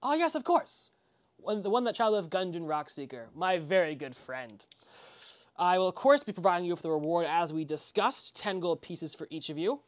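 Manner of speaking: friendly merchant, pleased, haggling a little; Barfin surprised, then bargaining. Acted. Barfin haggling with travelers over the wagon, friendly.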